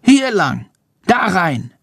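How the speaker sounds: high squeaky bat; chirpy little bat creature. A narrator's reading. Bat Chandor's voice.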